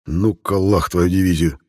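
slow, exasperated mock curse. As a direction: drag it out in fed-up irritation. Denis exasperated by bear.

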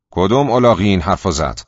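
loud, angry challenge to the crowd; angry demand. Acted. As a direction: bark it out at the whole hall. Bully confronts cinema crowd.

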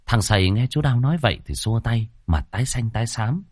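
ordinary delivery

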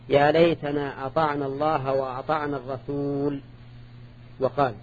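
"الرسول" ends on a bare l, pause before "وقال"; alif dropped at stop. Shown as a demonstration. Teacher demonstrating one reading, stop on "الرسول" without alif. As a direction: stop on ar-rasool with no final vowel in "الرسول". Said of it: "قراءة واحدة".

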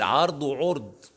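عرض said twice, vowels changed the second time; two readings of عرض. Shown as a demonstration. Teacher contrasting two readings of a word, slow. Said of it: "كل ده تنغيم".

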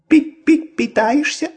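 high squeaky peeping voice; peeping baby chick. A narrator's reading. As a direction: peep it like a tiny chick. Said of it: "пропищал голос".

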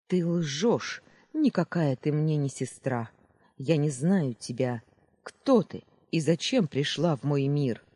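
furious, accusing villainess; angry. Acted. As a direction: spit out the denial in rage. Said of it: "голос звенел от ярости".

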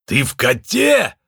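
медленный удивлённый вопрос; не веря, переспросить; изумление. A narrator's reading. Лунветр удивлён. (Лунветр изумлённо спрашивает Джо)

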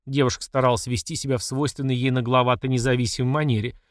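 usual speaking voice

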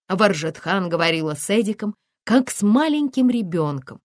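ordinary delivery

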